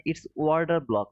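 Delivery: it's order block, slow, with Order stressed; slow correction. Shown as a demonstration. Correcting a laughing viewer's water block, slow and firm. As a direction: set the record straight, deliberately. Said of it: "First time I heard of water block".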